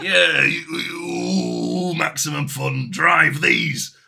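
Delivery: loud, hammed-up Italian-American tough guy; mock Italian accent. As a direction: bark it like a cartoon Italian heavy. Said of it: "That's my Italian accent".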